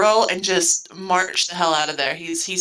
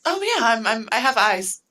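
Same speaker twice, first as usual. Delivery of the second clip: cheerful. Acted. Belle admits noticing Jim's nature, mildly cheerful. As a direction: agree breezily, with a touch of cheer. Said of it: "just very cheerfully".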